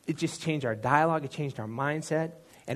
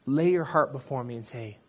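gentle voice of God. Retold or imitated. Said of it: "I heard him say this in a voice".

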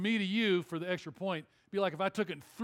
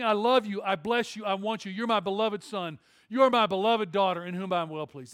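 God's loving words; 5 dB louder than usual. Retold or imitated. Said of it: "it's saying".

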